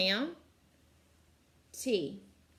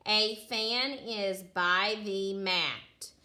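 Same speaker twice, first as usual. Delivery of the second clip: slow reading; much slower than usual. Shown as a demonstration. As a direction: read A fan is by the mat slowly. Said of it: "what is the naming part".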